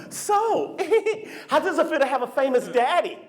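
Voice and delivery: put-on high, gushing lady talking to a child; sweet lady voice. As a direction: coo at the little girl. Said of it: "She goes up to my little girl".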